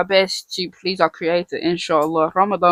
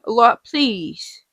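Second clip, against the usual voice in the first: slow, drawn-out "please"; imagined plea; much slower than usual. Pretend. Teacher models calling on Allah for help, slow plea. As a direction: stretch it into an earnest appeal. Voicing a sample supplication.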